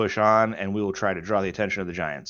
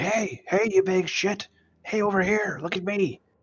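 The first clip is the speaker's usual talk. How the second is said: loud yelling. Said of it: "I run to the road. On the whole way".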